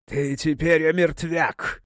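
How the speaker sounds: rasping, threatening croak; hoarse rasp. A narrator's reading. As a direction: rasp it out like a cursed thing. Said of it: "прохрипел мужик".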